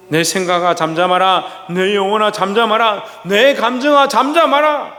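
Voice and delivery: commanding 감정아 잠잠하라 climbing in pitch and force; building command. Shown as a demonstration. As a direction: command your soul, each line stronger. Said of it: "명령해야 되는 거예요".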